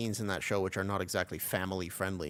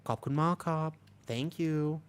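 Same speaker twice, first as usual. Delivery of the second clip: polite thanks, pitched up; respectful Thai politeness; 4 semitones higher, slower than usual. Real, not acted. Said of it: "she went all respectful in Thai".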